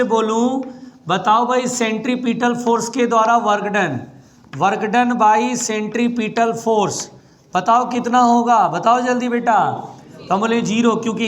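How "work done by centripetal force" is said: slow, stressed drill. Shown as a demonstration. Teacher drilling key phrase.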